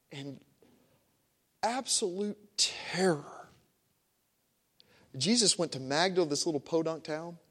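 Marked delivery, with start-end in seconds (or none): 0.1-3.5 breathy whisper of terror; hushed. Acted. Preacher to congregation, hushed whispered dread. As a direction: whisper it like she's afraid. Describing demon-possessed woman's fear.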